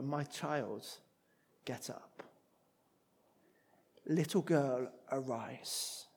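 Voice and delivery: put-on a gentle command to wake the child; kind, commanding word. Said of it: "At this kind and this commanding word".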